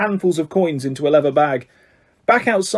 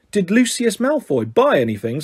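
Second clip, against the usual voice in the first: sharp; 4 semitones higher than usual. Acted. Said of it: "said Mister Weasley sharply".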